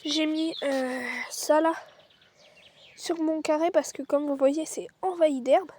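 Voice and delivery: breathless, short of air; winded, gasping between words; out of breath. Real, not acted. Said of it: "J'ai le souffle coupé".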